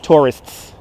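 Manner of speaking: Tourists with every letter crisp, aspirated T, final s-t-s clear; careful pronunciation. Shown as a demonstration. Guide showing viewers his cleaned-up speech, crisp Tourists. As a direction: spell out Tourists through the mouth, no New York slur. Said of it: "how to pronounce all the little letters".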